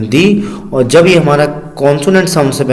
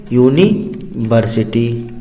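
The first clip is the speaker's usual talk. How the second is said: यूनिवर्सिटी drawn out, softer; slow read-out; 4 semitones lower, 4 dB quieter, much slower than usual. Shown as a demonstration. Teacher reading a written word aloud to kids, slow. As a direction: read the word out slowly for the class. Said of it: "क्या लिख लिया?".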